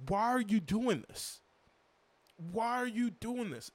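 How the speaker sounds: high, slow, pleading why; exasperated plea. Real, not acted. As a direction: beg the front office to explain, drawn out. Exasperated fan pleading with front office.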